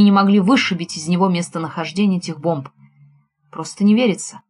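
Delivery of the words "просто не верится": plain reading voice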